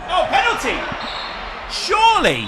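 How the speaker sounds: excited shout. Real, not acted. Commentator reacting to a foul in the box, excited shout. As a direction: leap up and shout for the penalty.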